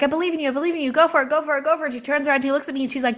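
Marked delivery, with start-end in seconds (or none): 0.0-1.9 higher, bright encouragement pushing a friend on; eager cheering. Retold or imitated. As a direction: cheer her on, repeating it eagerly. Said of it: "I was like".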